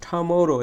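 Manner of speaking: "tomorrow" with a drawn-out, forceful middle syllable; middle syllable stressed. Shown as a demonstration. Teacher showing students the stressed syllable, middle of "tomorrow" stressed. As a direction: lean hard on the MO in "tomorrow". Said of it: "মাঝেরটা আমাদেরকে জুড়ে উচ্চারণ করতে".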